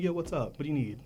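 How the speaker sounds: relaxed, familiar greeting; casual code switch. Shown as a demonstration. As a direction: drop the work voice and greet one of your own. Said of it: "if a black person would come in".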